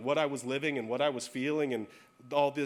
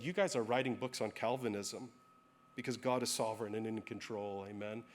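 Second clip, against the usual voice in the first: gentle, calm; 4 semitones lower, 5 dB quieter than usual. Retold or imitated. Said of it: "very calmly, very gently".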